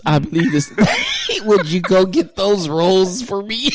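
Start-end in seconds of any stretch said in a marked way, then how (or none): 1.5-3.7 mock request. Quoting him, laughing.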